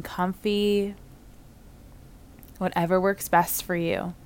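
unhurried meditation guide with long pauses between phrases; guided visualization. Real, not acted. Yoga teacher leading listeners through a calming beach visualization, unhurried meditative delivery. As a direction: guide listeners gently into relaxation, leaving space to breathe.

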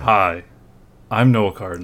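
upbeat public service announcer; PSA voice. Shown as a demonstration. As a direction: read it like a service ad. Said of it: "you gotta do it in a P S A voice".

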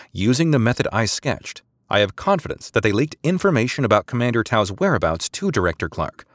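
crisp, formal subordinate making a case; precise female officer. Acted. Maradesi lays out her case.

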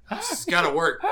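high, loud insistence; will it to work; desperate. Acted. Frantic healing attempt.

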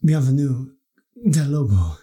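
put-on hammy Spanish shopkeeper accent. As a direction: lay on a thick Spanish accent. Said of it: "do a Spanish accent".

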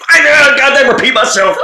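imitating a chef yelling over his shoulder; mock yell. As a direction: snap it like an angry chef who won't turn around. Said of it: "just yell a second".

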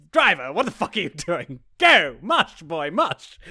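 loud mock-imperious order to a driver; steely command. Boss ordering her driver to get moving, mock steely. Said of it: "sort of goes steely face and goes".

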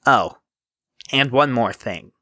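lightly voiced smarmy rival; a touch of oily smugness. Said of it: "in that smarmy voice he always used".

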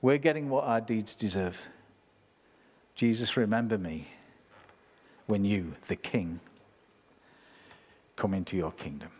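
a hint of a dying thief's plea; simple plea. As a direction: plead plainly, as a dying man. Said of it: "He just said it with these simple words".

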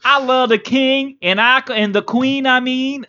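high, slow, loud hammed-up English accent; mock English accent. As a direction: ham up a loyal English subject. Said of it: "That's a great English accent".

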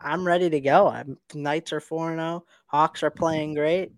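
echoing tunnel; muffled, like speaking in a tunnel; muffled tunnel sound. Real, not acted. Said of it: "You sound like you're in a tunnel".

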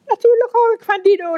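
a touch of amused laughter; surprised little laugh in her voice; laughing lightly. A narrator's reading. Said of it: "lachte Elisabeth".

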